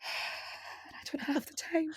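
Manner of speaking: breathy sigh, slow and soft. Real, not acted. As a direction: let it out on a tired sigh. Sighing about no time.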